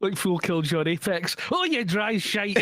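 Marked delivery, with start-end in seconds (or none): 1.5-2.6 imitating Dax. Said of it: "I burst out laughing".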